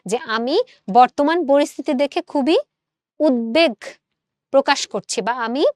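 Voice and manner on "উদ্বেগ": উদ্বেগ said "ud-beg" with a full b; correct pronunciation. Shown as a demonstration. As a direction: set উদ্বেগ apart, sounding the ব. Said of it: "এই শব্দটার শুদ্ধ উচ্চারণ হচ্ছে উদ্বেগ".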